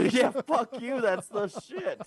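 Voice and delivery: mock grateful insult. Mock thanks joke.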